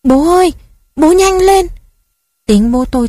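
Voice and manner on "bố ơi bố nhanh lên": high, loud panicked cry to dad; child's frantic shout. A narrator's reading. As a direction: yell at dad to ride faster, much higher and louder. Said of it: "tôi hét lên".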